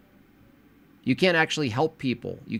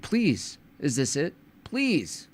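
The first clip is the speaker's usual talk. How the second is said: mock plea; 2 semitones higher, much slower than usual. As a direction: beg like a desperate preacher. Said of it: "There's, like, a plea".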